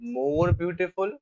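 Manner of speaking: very slow, each word stretched while writing; slow dictation. Shown as a demonstration. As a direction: spell it out slowly as you write. Teacher writing the answer. (धीमे, लिखवाते हुए)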